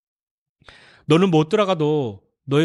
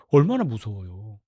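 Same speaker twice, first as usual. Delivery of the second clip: ordinary delivery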